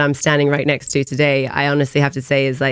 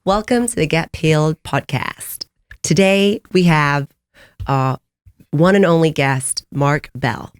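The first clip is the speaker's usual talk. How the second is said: put-on American accent; slower than usual. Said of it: "I'll have an American accent".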